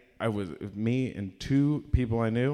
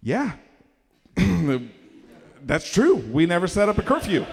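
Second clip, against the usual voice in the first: sheepish parent; 6 semitones higher, 5 dB louder than usual. Retold or imitated.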